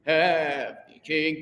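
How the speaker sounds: slow "Heavenly King", heavenly as HEV-nee; teacher models "Heavenly King" slowly; heavenly in two syllables. Shown as a demonstration. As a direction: drag "Heavenly King" with heavenly squeezed short. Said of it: "it's almost like two syllables".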